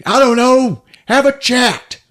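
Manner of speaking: high, loud mock brush-off; yelled retort. Departing driver answers the man left behind, mock-exasperated yell.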